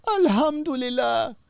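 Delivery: high, tearful plea to God; crying prisoner. Retold or imitated. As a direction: voice him sobbing out his thanks. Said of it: "he's crying".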